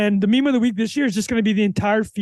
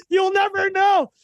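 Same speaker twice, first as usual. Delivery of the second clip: put-on kid voice; 7 semitones higher, slower than usual. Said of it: "he just starts laughing".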